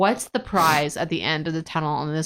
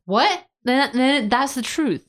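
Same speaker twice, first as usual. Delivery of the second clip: incredulous; 6 semitones higher, slower than usual. Real, not acted. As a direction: blurt it out in disbelief, then slow down. Baffled reaction to Dalton's logic.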